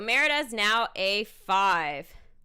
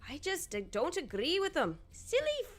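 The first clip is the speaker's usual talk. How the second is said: put-on Scottish accent. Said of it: "My accent for this is, has gotten worse".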